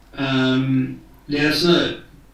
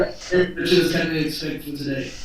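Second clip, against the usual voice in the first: co-anchor voice. Pretend. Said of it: "start doing the news for you guys".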